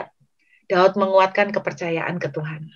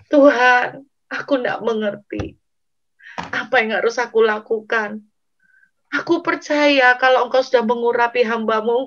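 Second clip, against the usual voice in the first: acted tearful pleading; 2 semitones higher than usual. Preacher as exhausted David asking God for help, pleading. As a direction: plead as if worn out from weeping.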